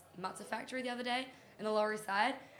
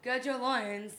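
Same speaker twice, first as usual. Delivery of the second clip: family rallying call; 3 semitones higher, 5 dB louder, much slower than usual. Retold or imitated. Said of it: "we say it regularly".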